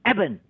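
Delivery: Eben with the stress on E; stress on first syllable. Shown as a demonstration. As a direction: hit the E in Eben. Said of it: "重音在前面". (Eben，重音放在前面)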